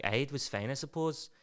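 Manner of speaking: put-on understated Belfast accent. Eileen answering Simon about the weekend, Belfast accent. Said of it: "she's from Belfast".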